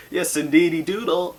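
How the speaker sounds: put-on a posh lady mangling a country accent on purpose; fake country accent. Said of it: "say things she thinks country farm ponies would say".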